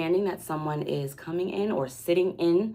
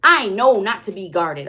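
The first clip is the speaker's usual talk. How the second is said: higher and louder, a hammed-up bragging guarded person; mock open-book persona; 6 semitones higher, 6 dB louder than usual. Reader imitating a guarded person who claims to be an open book, lightly mocked. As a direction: play someone who swears they hide nothing, lightly mocking. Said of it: "And I'm not mocking anybody".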